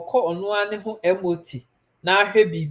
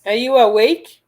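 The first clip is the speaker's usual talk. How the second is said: louder, higher call across the room; raised, high call to Eva to wake her; 7 semitones higher, 11 dB louder than usual. Real, not acted. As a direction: call Miss Eva from afar. Calling out to Eva off-mic.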